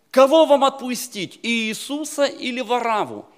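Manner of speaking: high, loud proclamation as Pilate; loud public demand. Acted. Pilate puts the choice to the crowd, loud public demand. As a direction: call it out over a crowd, high and forceful.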